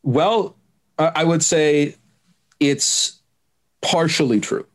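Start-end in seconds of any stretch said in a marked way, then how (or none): 3.8-4.7 partially lifted higher and leaned on; stress on partially. Real, not acted. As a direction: lean on the word partially to qualify it. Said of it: "emphasis on the partially".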